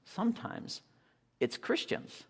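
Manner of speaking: breathy whispered sometimes. Shown as a demonstration. Preacher to congregation, whispering sometimes.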